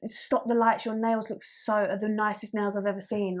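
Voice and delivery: a hint of dramatic praise; mock gushing. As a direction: gush about the nails a bit too much. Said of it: "I'm being dramatic".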